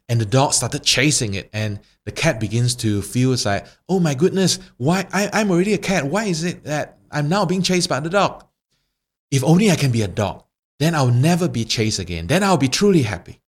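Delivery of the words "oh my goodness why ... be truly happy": high, fretful, frightened cat; panicked cat. Acted. Panicked cat chased by dog.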